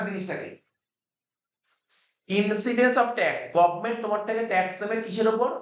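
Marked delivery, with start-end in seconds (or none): 2.3-3.4 very slow, word by word, like dictating notes; slow dictation. Shown as a demonstration. Teacher to student, dictating section five slowly. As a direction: read the law out slowly for students to copy.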